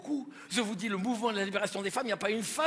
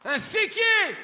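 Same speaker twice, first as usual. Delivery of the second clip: mock outrage; 10 semitones higher, 6 dB louder, much slower than usual. Outraged emphasis.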